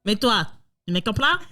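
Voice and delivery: hammed-up Italian-accented French. Player answering the police chief, mock Italian accent. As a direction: put on a joke Italian accent. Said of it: "Bon, bah, italien, ça passe".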